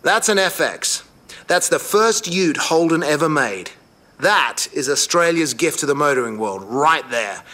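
loud, swelling pride; proud excitement. Real, not acted. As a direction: present it like a national treasure. Proud reveal of Holden ute.

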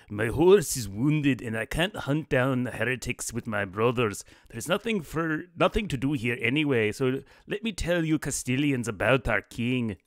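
hammed-up Scottish accent for a nobleman; a cheesy fake Scottish accent; bad Scottish accent. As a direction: put on a rough Scottish accent as the Scottish lord. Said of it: "really bad Scottish accent".

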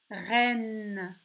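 "Reine" with a long final n; word sounded out. Shown as a demonstration. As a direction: draw out "Reine" for listening. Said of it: "tu entends le son N".

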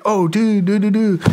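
high excited dude voice; imitating Tommy. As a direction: gush like an overjoyed rock star. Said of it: "He's like".

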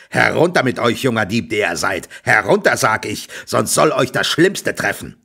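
loud, threatening farmer shout; angry farmer. Acted. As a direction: order the thief down with menace.

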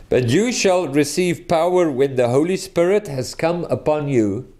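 deliberate reading that leans on "Holy Spirit"; measured, pointed reading, "Holy Spirit" marked as the source; emphatic verse reading. Shown as a demonstration. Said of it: "Here is the emphasis".

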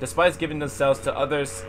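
a hint of a furious despairing character; bitter character reading. Voices an angry game character.

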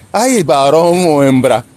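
slow, drawn-out mocking church phrasing; mock church talk. Mocking how church rehab folks talk, slow drawn-out. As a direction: parody the rehab preacher. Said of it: "si te rehabilitas en la iglesia".

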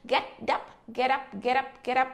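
"get up" run together, T flapped into up; linked get up. Shown as a demonstration. Teacher drills linked "get up", American style. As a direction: link "get up" with a light flapped T. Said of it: "nói nhanh là get up".

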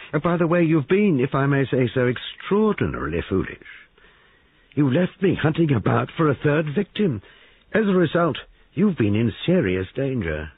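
a triumphant lawman savoring the reveal; smug detective. Acted. Detective scolding the woman for her foolishness, smug and brisk.

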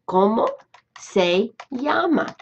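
slowly, word by word, "¿Cómo se llama?" spelled out as she types; slow dictation. Shown as a demonstration. Teacher typing for her students, slow and spelled out. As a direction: drag out "llama" as if typing each letter. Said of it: "I'm gonna say".

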